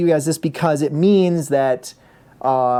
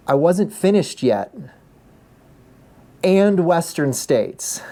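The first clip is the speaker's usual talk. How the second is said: deadpan announcement; 3 semitones higher, slower than usual. Retold or imitated. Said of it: "he says over the microphone".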